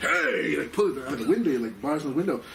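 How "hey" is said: retold angry call; mild acted outburst; really angry. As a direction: call out in mock anger. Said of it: "this guy's really angry".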